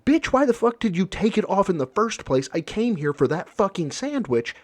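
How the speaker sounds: hammed-up outrage at the counter; mock angry customer. Customer yelling at the shop owner over a sandwich, mock angry. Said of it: "If you wouldn't go".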